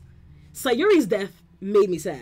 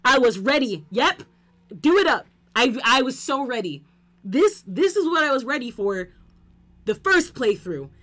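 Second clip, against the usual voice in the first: higher and louder, insisting he's fine; loud sarcastic bravado; 5 semitones higher, 4 dB louder than usual. Real, not acted. Gamer facing the stabbing scene, loud mock-brave freakout. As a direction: shout that you were ready, half-panicked.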